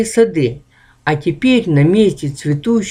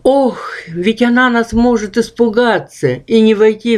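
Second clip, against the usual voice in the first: wary; 5 semitones higher than usual. Acted. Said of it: "с опаской произнёс Ох".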